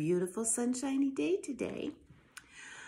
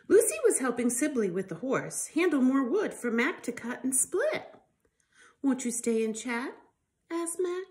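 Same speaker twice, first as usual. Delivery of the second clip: lively storybook reading voice; reading to children; 4 dB louder than usual. Acted. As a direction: read it out to little ones with life. Reads picture book to children.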